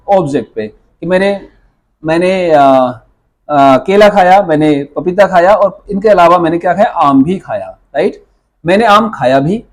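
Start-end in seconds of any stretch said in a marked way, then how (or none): 0.7-1.5 मैंने को ज़ोर देकर कहना; stress on मैंने. Shown as a demonstration. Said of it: "तो यहाँ पे जोर किस पे है?". 8.7-9.6 "भी" पर हल्का ज़ोर, verb की ओर इशारा; "खाया भी" को उभारकर पढ़ें; stress on भी. Shown as a demonstration. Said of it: "मैंने आम को खाने के अलावा कुछ और भी काम किया".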